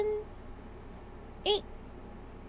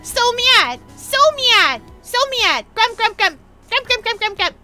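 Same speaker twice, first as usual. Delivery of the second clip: louder hammed-up tantrum; playful grumpy grumbling; mock anger; 4 semitones higher, 5 dB louder than usual. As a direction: stomp through it like a sulky child. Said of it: "And I get very mad!".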